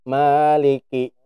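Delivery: "Maliki" slow with no air on the kaf; unaspirated kaf. Shown as a demonstration. Teacher shows the wrong kaf to students. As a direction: kaf held back, no puff. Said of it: "Nggak gerak ya".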